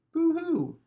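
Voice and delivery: high, hammed-up boo-hoo sob; mock crying. Ghost punchline to the joke, fake high sobbing.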